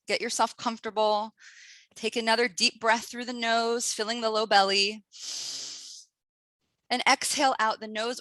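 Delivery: breathing cue voice with an audible sigh; guided breathing instruction. Acted. Leads a breathing exercise.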